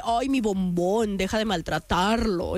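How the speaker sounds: slow, low mock-tender plea; imitating a protective brother; Armando. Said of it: "Mi hermano, el Armando, le dice".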